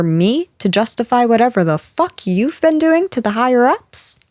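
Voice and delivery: indignant outburst. Acted. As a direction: bristle and defend yourself. Boss snaps at employee's reaction.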